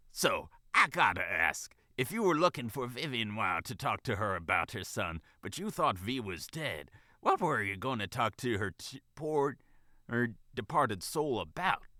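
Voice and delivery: lightly voiced drawling vixen manager; keen, nosy manager. Manager prying into the bunny's business, keen.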